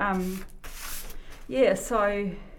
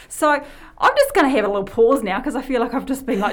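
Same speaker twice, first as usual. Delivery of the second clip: laughing and out of breath; breathless, loud and laughing; 3 semitones higher, 9 dB louder than usual. Real, not acted. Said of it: "I'm running out of breath".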